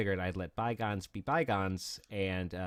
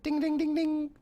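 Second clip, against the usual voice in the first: much higher, loud singsong call; mock dinner bell call; 7 dB louder, slower than usual. Joking that the falls sounded like a dinner bell, singsong call. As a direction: ring it like announcing dinner.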